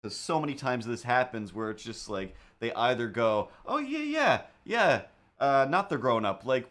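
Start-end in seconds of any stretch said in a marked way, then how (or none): 3.7-6.4 high, dismissive mock reply. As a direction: toss it off in a silly high voice. Mocking what people say.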